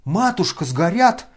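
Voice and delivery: loud high wail. A narrator's reading. Lebedev wailing over the burning money. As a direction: wail in despair. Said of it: "вопил Лебедев".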